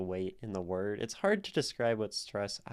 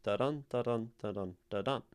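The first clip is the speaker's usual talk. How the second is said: steady "da-dun" pairs landing on "dun"; iambic beat; much faster than usual. Shown as a demonstration. Teacher repeating the iambs of tetrameter, steady iambic beat. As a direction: beat out "da-dun" weak then strong. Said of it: "which is four iambs".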